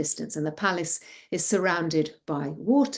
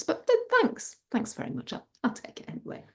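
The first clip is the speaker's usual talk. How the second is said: high start, then soft breath; politely grateful daughter; 13 semitones higher, 4 dB quieter, faster than usual. A narrator's reading. Daughter accepting father's unneeded gift, politely. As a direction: thank hesitantly, tailing away softly.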